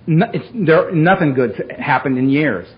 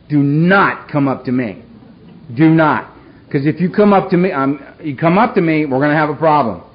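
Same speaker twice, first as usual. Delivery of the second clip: menacing warning. Retold or imitated. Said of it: "That was the vibe I was throwing out".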